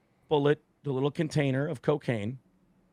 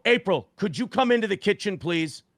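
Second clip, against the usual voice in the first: tight-lipped request; 6 semitones higher than usual. Retold or imitated. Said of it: "I go".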